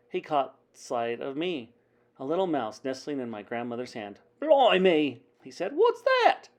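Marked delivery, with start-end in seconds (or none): 4.4-5.2 loud, raised exclamation; startled driver. A narrator's reading. Driver startled by seeing a mouse. 5.8-6.5 very high, loud yelp; startled driver. A narrator's reading. Driver startled by seeing a mouse.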